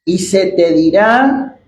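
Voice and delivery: very slow, measured verse reading; scripture reading. Acted. Preacher reads the Lord's command to Saul, slow scripture reading. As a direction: spell out the command phrase by phrase, with pauses.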